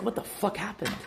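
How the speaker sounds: stunned, asking the air; incredulous outburst. Retold or imitated. Recalling being stuck as the forms guy, high baffled disbelief.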